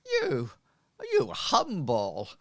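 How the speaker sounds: high, loud hammed-up gratitude; gushing street woman. Humble woman thanking her benefactor for coins, gushing. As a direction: fawn over the payment, starting way up high. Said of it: "she says".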